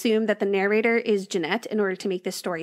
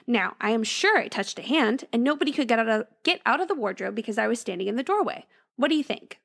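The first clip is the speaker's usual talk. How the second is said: storyteller reading a ghost tale; story narration. A narrator's reading. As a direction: read it like a spooky bedtime story. Reads a ghost story aloud.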